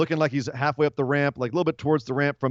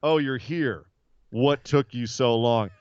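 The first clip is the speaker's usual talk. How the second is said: imitating Kane; 3 semitones lower, slower than usual. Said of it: "Kane goes".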